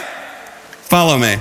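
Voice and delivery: low, slow, hushed "Follow me", drawn out; imitating the rabbi, quietly and very slowly; mock solemn call. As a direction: drop it soft and slow like a tease. Mocking rabbi voice, retold.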